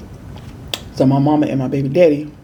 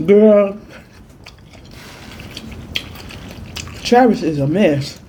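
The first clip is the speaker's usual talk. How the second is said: mama's report; 4 semitones higher, slower than usual. Retold or imitated. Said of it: "My mama come in and come out".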